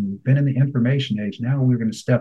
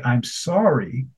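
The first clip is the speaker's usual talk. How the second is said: slow apology; much slower than usual. Shown as a demonstration. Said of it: "when people say".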